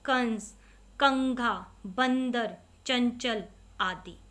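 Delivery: कंस, कंघा, बंदर, चंचल each nasalised, slowing at the end; teacher models nasal words; nasal example words. Shown as a demonstration. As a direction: read the nasal examples one by one. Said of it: "केवल नाक से उच्चारण".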